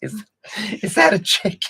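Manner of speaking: high, loud mock squeal; Kylie Jenner. Podcaster imitating Kylie puzzled by the potbelly pig, high mock squeal. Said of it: "She's like".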